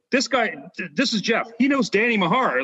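impressed introduction. Retold or imitated. Coach introducing a fan to his wife, excitedly. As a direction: show off a new acquaintance.

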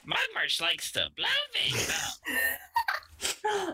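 very high, slow witch voice; high-pitched witch voice. Acted. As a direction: squeak it like a witch. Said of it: "high-pitched witch voice".

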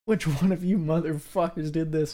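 loud, high mock-angry yell; Erlich's outburst. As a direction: imitate a TV character storming out at kids. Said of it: "Erlich goes out. He's like".

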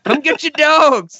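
high, drawn-out mock scream; Dan Aykroyd, screaming. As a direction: holler it slowly like a crazed justice of the peace. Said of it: "Justice of the Peace screaming".

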